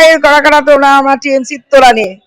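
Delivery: loud mock roll-call; imitated calling out. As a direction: call out loudly, playing the crony handing out favours. Acted exchange handing out money.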